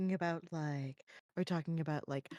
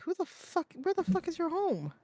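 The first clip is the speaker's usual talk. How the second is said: exasperated disbelief; 9 semitones higher, 5 dB quieter than usual. Real, not acted. Baffled by the riddle.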